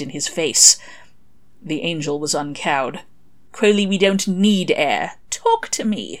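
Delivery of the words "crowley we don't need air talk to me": pleading. Acted. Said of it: "he pleaded".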